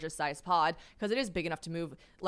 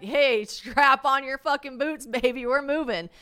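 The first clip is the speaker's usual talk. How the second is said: mock rousing call; 6 semitones higher, 9 dB louder, slower than usual. Imagined wake-up call to stranger.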